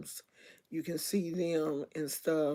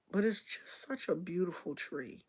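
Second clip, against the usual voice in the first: whispered, wistful over the tree; sad whisper; 5 dB quieter than usual. Real, not acted. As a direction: let it fall to a whisper of longing. Sad about neighbor's tree.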